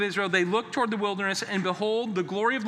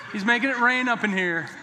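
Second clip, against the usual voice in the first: playful slang; 4 semitones higher than usual. Pretend. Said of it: "Some of you hip people know what I'm doing".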